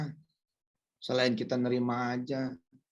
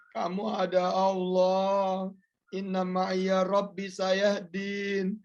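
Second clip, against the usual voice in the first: reassuring parent; 4 semitones higher, much slower than usual. Retold or imitated. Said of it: "bilang sama mereka".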